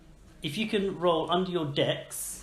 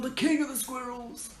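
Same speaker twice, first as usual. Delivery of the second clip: dramatic tree voice; 11 semitones higher than usual. Acted. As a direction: announce the villain grandly. Tree repeats reveal.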